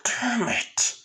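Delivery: high, strained, very drawn-out curse; frustrated villain. Retold or imitated. Mud mage after being smacked with the shield, frustrated. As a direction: stretch each word in pained frustration. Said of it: "and the guy says".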